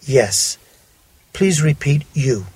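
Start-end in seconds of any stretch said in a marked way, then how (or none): 0.0-0.6 "yes" with a clear y glide; "yes" starting with y, not sh; correct y yes. Shown as a demonstration. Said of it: "and it is".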